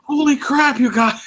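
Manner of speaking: high excited exclamation. Retold or imitated. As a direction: burst out with delight.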